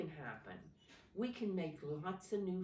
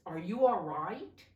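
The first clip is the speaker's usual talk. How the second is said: concerned; 2 semitones higher, 10 dB louder than usual. Acted. Tortoise voice in story.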